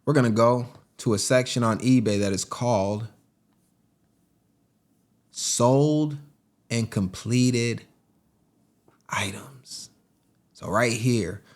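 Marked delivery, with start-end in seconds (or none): 2.3-9.9 breathy whispered reveal. Acted. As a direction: whisper the last word like a secret. Dramatic reveal of eBay filter.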